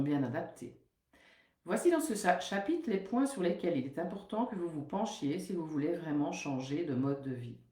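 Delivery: steady, measured reading of a book passage; reading aloud. Acted. Nutritionist reads a book chapter to her listeners, measured and even. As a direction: read the text out evenly, like a lesson.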